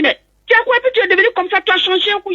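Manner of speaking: high-pitched astonished questioning, retold; imitated high-pitched alarm; shocked villagers. Villagers' shock at her appearance.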